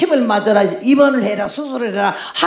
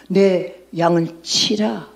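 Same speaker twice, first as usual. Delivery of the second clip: slow command; 3 semitones lower, much slower than usual. Retold or imitated.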